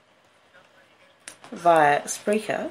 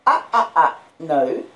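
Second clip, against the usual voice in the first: sharp, louder "ah, ah, ah, no"; louder, higher telling-off to a naughty puppy; scolding the puppy; 4 semitones higher, 7 dB louder than usual. Real, not acted. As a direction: stop the dog mid-jump, loud and firm. Puppy jumping up, told off.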